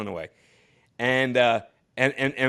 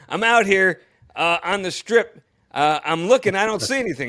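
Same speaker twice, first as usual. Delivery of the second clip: frustrated searching; 8 semitones higher, 6 dB louder than usual. Retold or imitated. Torre searching the sky, freezing.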